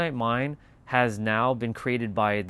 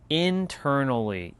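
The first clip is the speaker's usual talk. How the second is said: internally said slow and drawn out; slow, weighty internally; stress on internally; 3 semitones higher, slower than usual. Shown as a demonstration. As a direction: lean on the word internally, slow. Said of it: "I'm going to emphasize this word".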